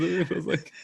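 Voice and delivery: ordinary talk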